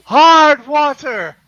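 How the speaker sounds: loud, high, slow spooky wail; ghostly bellow. Acted. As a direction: howl it out like a theatrical ghost. Ghost bellowing running joke.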